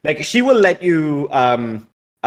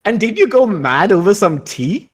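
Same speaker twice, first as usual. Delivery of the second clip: lightly voiced, higher-pitched pointed question; Marie Joanne asking; 5 semitones higher than usual. Marie Joanne looks at Joan and asks, lightly pointed. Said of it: "looks at Joan and says".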